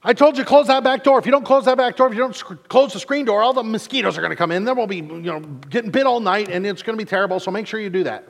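high, loud nagging scold; southern fussing. Retold or imitated. Wife scolding family about the screen door, loud high nagging. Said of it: "Fussing is making a lot of noise".

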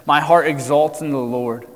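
measured, formal Bible reading; a preacher reading scripture aloud before the sermon. Acted. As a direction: read the passage aloud with weight.

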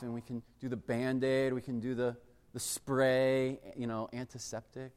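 lightly played doctor dad; dad triaging. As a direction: calmly lay out the treatment options. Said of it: "I would, like, triage them".

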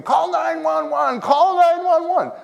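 high-pitched mock cries for help; slow, high retold scream; imitated screaming. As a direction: cry out high and drawn out, imitating a panicked crowd. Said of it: "People are screaming".

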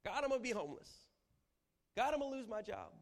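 high, loud, half-laughing panic; despairing prayer. Acted. Preacher mimicking a panicked prayer about money. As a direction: cry out your fears to God. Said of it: "it's the despair".

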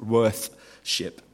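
"Worthship" split into worth and ship; "Worthship" in two distinct pieces, worth, ship; separated syllables. Shown as a demonstration. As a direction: sound out "Worthship" carefully, th held before ship. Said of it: "I can't pronoun-, pronunciation".

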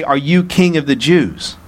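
mildly sarcastic question; understated mocking doubt. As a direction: put a touch of sarcasm on the question. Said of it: "He's saying this, by the way, sarcastically".

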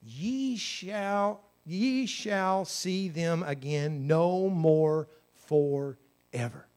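slow, drawn-out proclamation; solemn slow scripture voice; solemn scripture reading. Acted. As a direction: read the verse slowly and gravely. Preacher reading scripture slowly.

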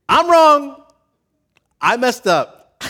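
very high, loud forced admission; strained confession. Retold or imitated. Pastor voicing reluctant churchgoers forcing out an admission, straining. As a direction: squeeze the words out like it hurts. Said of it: "doesn't come naturally to say".

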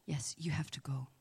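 hushed, breathy temple whisper; whispered priest. Retold or imitated. Temple priest shooing a praying visitor away, whispering. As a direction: quietly shoo the visitor out in a whisper. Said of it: "will come up and say".

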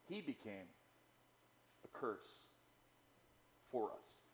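very soft, almost whispered Scripture; hushed quote. Acted. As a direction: drop to a near whisper for the verse. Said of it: "But Paul says".

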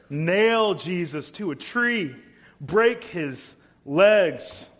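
loud, slow, high mob demand; angry mob cry. Acted. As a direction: hammer out each demand like a furious crowd. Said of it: "they cried out again".

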